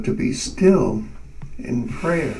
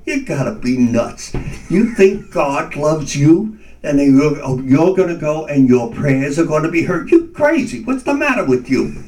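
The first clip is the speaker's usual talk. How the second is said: scoffing inner voice; 3 semitones higher than usual. Retold or imitated. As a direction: scoff at him as crazy. Inner voice mocking his faith.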